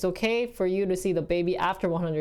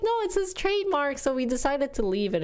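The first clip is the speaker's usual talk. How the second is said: retold protest; 7 semitones higher than usual. Her own reply to grandma.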